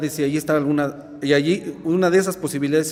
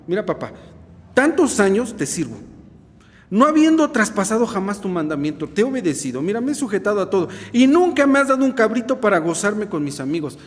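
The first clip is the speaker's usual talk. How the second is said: reproachful son. Acted. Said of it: "comienza el reproche".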